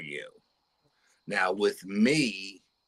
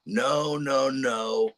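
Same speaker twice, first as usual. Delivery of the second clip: higher, frantic cries of no; retold screaming; 5 semitones higher, much slower than usual. Daughter screaming at the aliens in the night, frantic high cries. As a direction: plead in panic, voice pitched up. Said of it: "starts screaming bloody murder".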